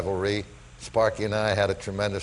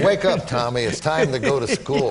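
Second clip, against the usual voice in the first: put-on lively, raised-voice mother rousing her boy; brisk retold wake-up call; mother's wake-up call; 2 semitones higher, 3 dB louder than usual. Mother shaking Tommy out of his Yankee dream, lively wake-up call.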